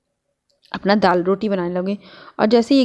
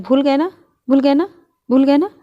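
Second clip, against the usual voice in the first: higher, sing-song mock teasing of the child; teasing mother; 6 semitones higher, 3 dB louder than usual. Mother teasing son who forgot his lesson, sing-song. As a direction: needle him playfully for forgetting. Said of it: "तो ऐसे बोल रही थी".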